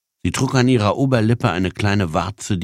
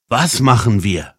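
raised pitch, taken aback; mildly startled, higher voice; startled question; 5 semitones higher, 4 dB louder than usual. Acted. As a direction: ask it with a touch of alarm. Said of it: "fragte erschrocken der Mann".

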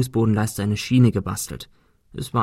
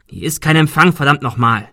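frustrated outburst; 3 semitones higher, 5 dB louder than usual. Acted. Panicked search for a signal.

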